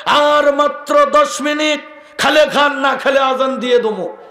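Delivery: lightly mocking loudspeaker caller, stretching উঠুন; mosque loudspeaker wake-up call. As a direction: mimic a muezzin's Ramadan wake-up announcement over the mic. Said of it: "আবার বলে".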